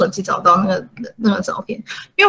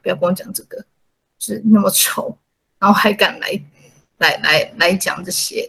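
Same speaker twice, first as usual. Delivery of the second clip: scornful; 3 dB quieter than usual. Retold or imitated. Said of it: "一脸很不屑".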